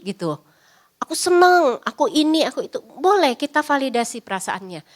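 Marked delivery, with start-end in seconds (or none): 1.0-2.8 put-on higher, excited child chatter; a child bubbling about their day; happy child. Parent quotes a happy child. (anak senang bercerita, suara tinggi)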